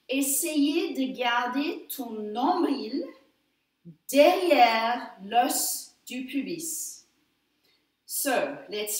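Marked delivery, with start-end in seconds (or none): 0.1-7.0 slow, careful French translation of the cue; repeated in French. Shown as a demonstration. Instructor repeats the pelvic cue in French, slow and clear. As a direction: say it again slowly in French for the class. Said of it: "I'll say it in French".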